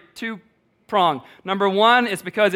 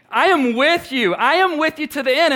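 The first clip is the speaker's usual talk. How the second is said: earnest swelling promise; rising passion; 8 semitones higher, 5 dB louder than usual. Acted. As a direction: climb toward "the end". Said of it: "her voice rising with every".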